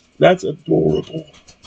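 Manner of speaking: plain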